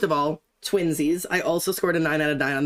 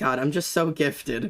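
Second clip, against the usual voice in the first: sarcastic delivery. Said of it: "Why you say that sarcastically?".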